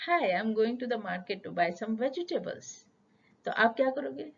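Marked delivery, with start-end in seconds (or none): 0.1-2.9 slow, clear English sentence; teacher demonstrating a full sentence to learners. Shown as a demonstration. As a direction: model a complete sentence slowly. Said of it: "वही sentence अगर मैं बोलती".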